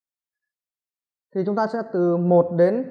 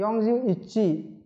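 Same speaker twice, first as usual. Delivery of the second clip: teacher modelling numbers slowly; slow drill; 3 semitones higher, much slower than usual. Shown as a demonstration. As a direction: drag each number out for students to copy. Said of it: "bốn mươi mốt là gì?".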